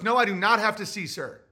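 lightly done defiant Kanye; firm Kanye. Retold or imitated. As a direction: shut him down politely. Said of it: "He goes".

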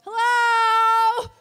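loud, high talking-horse voice; big hammed-up TV horse impression; Mister Ed. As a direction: belt out a long, drawn-out horse greeting. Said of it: "It was Mister Ed".

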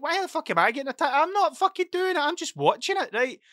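high, fast, indignant outburst; exasperated. Retold or imitated. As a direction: throw up your hands, why me. Retold being blamed unfairly.

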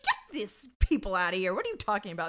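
mock irate order, starting loud; imitated yelling. Podcaster acting out the lineup scene, mock yelling. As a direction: order them out, imitating an angry man. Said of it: "he's, like, yelling at them".

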